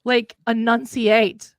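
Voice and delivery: over-enunciate the word enunciate; slow overenunciated. Shown as a demonstration. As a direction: enunciate said slowly, each syllable crisp. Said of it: "learn how to enunciate".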